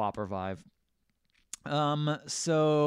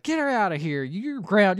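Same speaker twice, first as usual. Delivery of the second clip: higher, mock-angry mother; retold scolding; 7 semitones higher, 5 dB louder than usual. Mother catching her son misbehaving, retold scolding. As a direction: act out telling off your kid.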